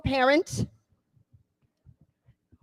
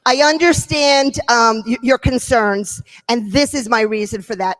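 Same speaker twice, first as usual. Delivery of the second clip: calm and understanding; 3 semitones lower, 6 dB louder than usual. Shown as a demonstration. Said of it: "did you see how she acknowledged".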